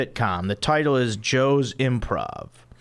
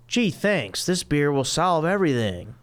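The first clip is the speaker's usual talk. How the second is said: sarcastic; 4 semitones higher than usual. Acted. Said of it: "Chandler, sarcastically".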